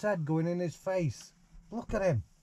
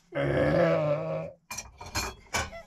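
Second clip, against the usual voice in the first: mock burp. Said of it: "That were a terrible burping noise".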